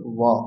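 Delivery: touch teeth to lip for ওয়া, like "va"; labiodental v sound. Shown as a demonstration. Teacher asks learners to repeat ওয়া, teeth on lip. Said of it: "ওপরের দাঁত নিচের ঠোঁটকে স্পর্শ করবে".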